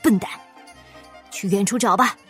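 gruff, dismissive insult; mildly angry rebuke; scolding. A narrator's reading. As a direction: curse him and send him off. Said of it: "国库管理大臣骂道".

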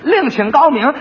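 slow, loud furious order to get out; angry magistrate. Acted. Magistrate drives the quack out, roaring angrily. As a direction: throw him out of the court.

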